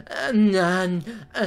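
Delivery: halting nasal-syllable kiss noise; awkward acted moan. Struggling to read the kiss line, awkward moan. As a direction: attempt an unreadable moan awkwardly. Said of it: "How am I supposed to read that line?".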